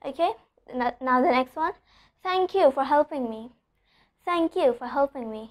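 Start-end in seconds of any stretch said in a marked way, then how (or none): 2.2-5.5 "Thank" starting with unvoiced th; voiceless TH. Shown as a demonstration. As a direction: open "Thank" on breath only, no voice. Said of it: "Here also it's the voiceless T H sound".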